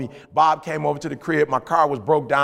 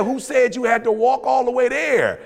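Bob scolding; 6 semitones higher than usual. Retold or imitated. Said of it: "He said".

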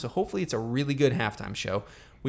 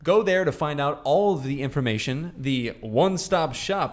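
louder, showy halftime-host delivery; mock announcer plug; 3 semitones higher, 5 dB louder than usual. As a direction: sell it like a show host. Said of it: "You did an accent".

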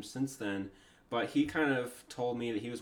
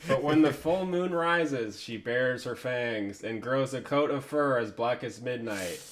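horror host; 4 dB louder than usual. Acted. Reading spooky host text aloud.

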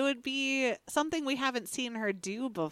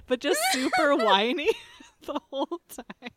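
laughing; 3 semitones higher, 5 dB louder than usual. Real, not acted. Laughing while describing.

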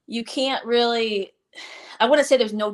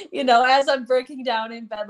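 laughing; 4 semitones higher, 3 dB louder than usual. Real, not acted. Laughing at her breakdown story.

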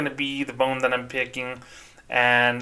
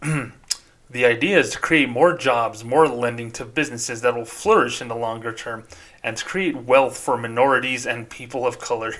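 generic banker voice. Pretend. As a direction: read it out like a stock corporate banker. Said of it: "read this in my generic banker voice".

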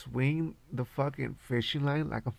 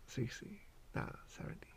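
whisper; 15 dB quieter than usual. Real, not acted. Muttering to himself about age.

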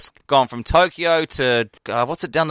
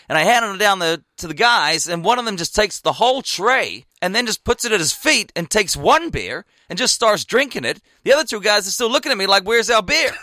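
animated American guy, pitch climbing as he goes; loud American accent; 3 semitones higher than usual. Retold or imitated. American lad recounting his morning at the cricket, loud American accent. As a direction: imitate an American spinning an excitable yarn. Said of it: "He's like your classic loud American".

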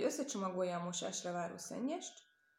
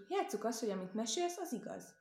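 put-on boy pleading; 3 semitones higher than usual. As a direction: coax it like a hopeful child. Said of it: "felelte a kisfiú".

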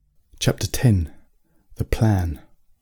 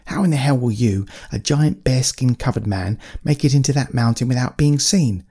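lightly voiced creature; 3 semitones higher than usual. Trubernicus voiced across a long run.

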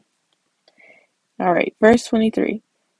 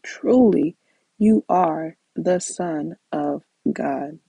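reverent; 3 semitones lower, slower than usual. Acted. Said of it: "reads the worshippers' words slowly".

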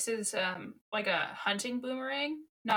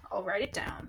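breathy unvoiced whisper, much higher; whispered aside; 5 dB quieter than usual. Real, not acted. Co-host whispering as she pretends to write a note. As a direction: murmur it as if jotting a note.

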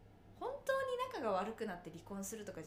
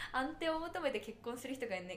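normal talking voice

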